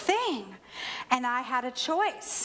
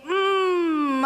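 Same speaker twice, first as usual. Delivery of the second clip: drawn-out, higher hum of realization; long thoughtful "mm"; pondering "mm"; 5 semitones higher, 4 dB louder than usual. Acted. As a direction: hum as the regret lands. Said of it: "it lands and you think".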